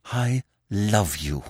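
slow, fierce declaration of love; fierce cry. Acted. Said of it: "she cried fiercely".

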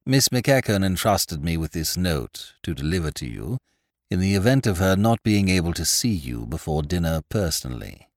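soft, deferential butler; hushed genteel host. Acted. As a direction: speak low like a discreet butler. Butler addresses the lord.

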